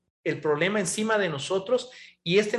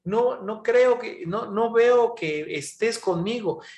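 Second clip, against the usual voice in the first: mock complaint to God; 5 semitones higher than usual. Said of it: "gritarle a Dios y decir".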